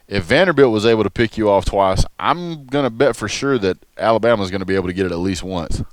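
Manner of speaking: talking while crunching chips; words through a mouthful of chips. Real, not acted. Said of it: "sorry for the crunch noise".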